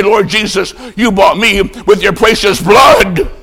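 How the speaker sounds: high, pleading cry building on the last words; impassioned remorse. Acted. Charlie confessing before Christ, crying out in remorse. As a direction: cry it out to the Lord, stretching the end.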